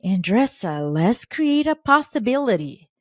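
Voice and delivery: slowed, lilting imitation of an angel voice; imitated angelic voice, rising into the invitation. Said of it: "I hear this angel voice".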